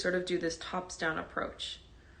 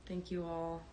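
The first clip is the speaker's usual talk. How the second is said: hushed class welcome; 16 dB quieter, faster than usual. Real, not acted. Teacher waiting for live students to join before meditation, hushed. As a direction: speak gently and quietly, as if settling the room.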